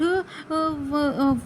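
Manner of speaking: stretched lip sounds; lip demo. Shown as a demonstration. Teacher shows how the lips move. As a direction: draw the sounds out slowly. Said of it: "ہمیں ہونٹ".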